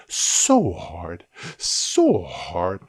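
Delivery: breathy mock-exhausted emphasis; dramatic whisper. Teacher playing up the effort on the switch, dramatic whisper. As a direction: draw out SO in a hushed, straining voice. Mock strain recalling hard work.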